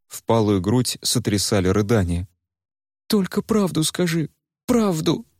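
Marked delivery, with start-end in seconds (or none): 3.1-5.3 much higher, pleading cry; Варя begging. Acted. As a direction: demand the truth, near tears. Varya begs for truth. (высокий умоляющий крик Вари)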